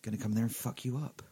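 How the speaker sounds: put-on lightly done, soft Bristol accent; a hint of a cheeky Bristol badger. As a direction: badger taunting tortoise, mild Bristol accent. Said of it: "He's from Bristol".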